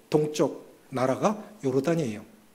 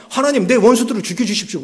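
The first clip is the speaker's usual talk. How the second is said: desperate plea; 5 semitones higher, 6 dB louder than usual. Retold or imitated. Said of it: "다윗이 너무 힘드니까".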